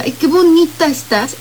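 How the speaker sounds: a rehearsed compliment falling flat on bonita; forced compliment. Shown as a demonstration. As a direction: say it as if you had to. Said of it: "esto ya no es espontáneo". (cumplido forzado, cayendo en bonita)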